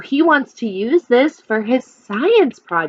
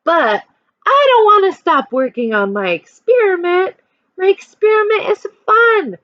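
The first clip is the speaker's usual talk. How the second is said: put-on reading a picture book to children; lively storytime voice for a class; expressive read-aloud for kids; story narration; 5 semitones higher than usual. A narrator's reading.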